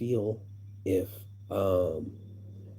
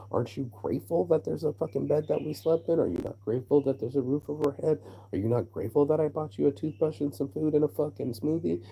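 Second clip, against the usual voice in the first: retold indignant tirade, pitched higher; indignant scolding; 6 semitones higher than usual. Man retelling how he scolded his date for ingratitude, indignant. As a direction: scold in rising, insistent rhetorical questions.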